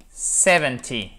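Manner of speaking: seventy, slow, stress on the first syllable "sev". Shown as a demonstration. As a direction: stretch out seventy, weight on "sev". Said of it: "si vous dites seventeen, on entend en anglais".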